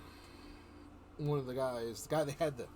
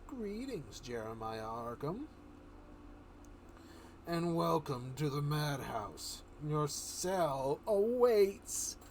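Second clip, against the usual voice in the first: lightly voiced Joker, a slow drawn-out close; a hint of mocking welcome; slower than usual. Joker greeting the doctor, a light sneering welcome. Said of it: "He goes".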